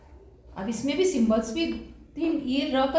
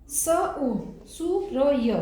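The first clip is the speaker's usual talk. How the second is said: sounding out; much slower than usual. Shown as a demonstration. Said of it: "हम इसको एक बार read कर लेते हैं".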